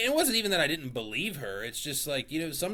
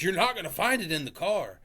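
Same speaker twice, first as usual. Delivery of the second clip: higher, insistent imitation of wife; wife insisting it's not in the car, mildly mocking; mock irritated wife; 6 semitones higher, faster than usual. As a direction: mimic her stubborn certainty, fast. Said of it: "she's like".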